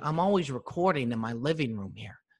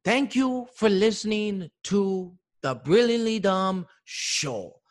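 outro voice; 5 semitones higher, 3 dB louder, slower than usual. Shown as a demonstration. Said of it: "never been so jacked up".

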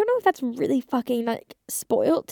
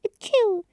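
dainty sneeze; 9 semitones higher than usual. Retold or imitated. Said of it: "people sneeze around me".

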